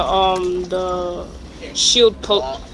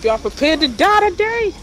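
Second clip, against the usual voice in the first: mock aggressive; 8 semitones higher than usual. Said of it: "trying not to sound so aggressive".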